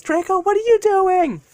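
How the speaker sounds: high-pitched, alarmed exclamation; alarmed young hero. Acted. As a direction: cry out in acted panic, voice way up. Deku alarmed as legs move.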